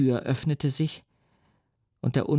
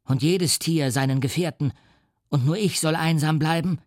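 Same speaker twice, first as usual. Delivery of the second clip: mild shout; 3 semitones higher than usual. Acted. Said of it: "schrie er".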